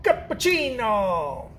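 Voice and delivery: long, slow falling exclamation; milk every syllable in mock excitement; super excited Salt Bae. Recalling the extra TikTok dude, super excited impression. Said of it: "He gets super excited too".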